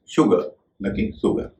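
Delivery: शुगर said with a clear "sh" sound, then सुगर with a plain "s"; correct vs wrong pronunciation. Shown as a demonstration. Teacher contrasting शुगर with the wrong सुगर, slow and careful. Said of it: "उसका सही उच्चारण है".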